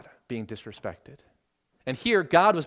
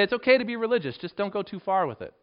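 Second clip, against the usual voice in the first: higher-pitched mock advice from the world; worldly caution; 5 semitones higher, faster than usual. The world advising a believer on religion, mock caution. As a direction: lightly voice a cautioning onlooker, pitched up. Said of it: "the world will say".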